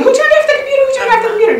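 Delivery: high, loud call through the house; retold loud, high household call. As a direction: yell the question so the whole house hears. Repeats call, no one answers.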